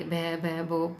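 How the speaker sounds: broken repeated भो and भा syllables; a lightly acted stammer. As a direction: stumble on the first sound of her name. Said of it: "हकला के बोलने लगी".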